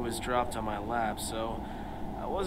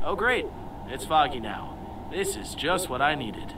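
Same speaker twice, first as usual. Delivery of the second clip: overacted anime dub; 3 semitones higher, 4 dB louder than usual. Voiced game character complaining.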